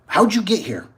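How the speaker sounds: a lightly voiced trooper of an old nurse. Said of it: "She goes".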